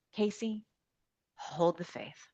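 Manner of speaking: soft, slow and earnest; steady someone gently, with a pause after the name; quietly solemn encouragement; retold reassurance.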